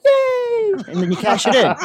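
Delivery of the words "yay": high-pitched mock cheer; an exaggerated, squealed yay; mock delight. Reacting to a joke scratch-off prize, mock delight.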